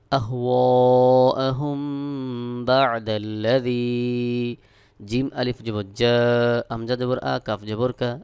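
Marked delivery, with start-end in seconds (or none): 0.1-4.6 أهواءهم chanted slowly, final m held as a nasal hum; ghunnah on mim. Shown as a demonstration. Teacher showing ikhfa to learners, long nasal m in أهواءهم. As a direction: hum the m at the end of أهواءهم before بعد. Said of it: "এখানে মিম সাকিনের ইকফা গুন্নাহ করতে হবে".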